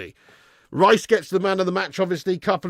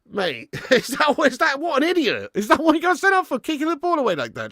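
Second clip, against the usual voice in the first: laughing disbelief; 10 semitones higher than usual. Real, not acted. Laughing at the sending off.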